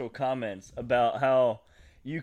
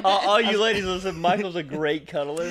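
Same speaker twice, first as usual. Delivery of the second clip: mock announcer; 9 semitones higher, 8 dB louder than usual.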